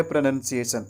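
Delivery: "प्रोनंसिएशन" with second syllable "nun"; correct pronunciation. Shown as a demonstration. Teacher names the most mispronounced English word, correct pronunciation. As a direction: say "प्रोनंसिएशन" with a short nun, not noun. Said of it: "इसी word के सही उच्चारण".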